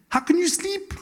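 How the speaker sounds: high-pitched, alarmed demand; indignant captain. Acted. Captain waking Jonah in the storm, high indignant cry. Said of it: "the captain went to him and said".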